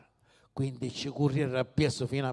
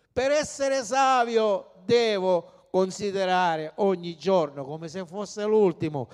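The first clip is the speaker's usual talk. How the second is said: ordinary delivery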